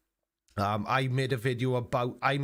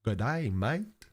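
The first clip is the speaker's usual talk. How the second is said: mock Australian accent; slower than usual. Mocks Ross's accent.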